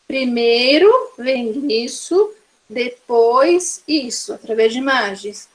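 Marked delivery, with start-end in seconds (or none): 0.1-4.3 put-on slow, clear steps for a child. Shown as a demonstration. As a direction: lay it out slowly for the little one. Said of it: "eu posso apresentar pra ela". (devagar, explicando para a criança)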